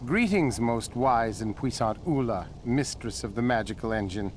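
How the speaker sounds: grand, fawning formal greeting; buttering up a cranky genius; mock flattery. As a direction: lay the praise on thick.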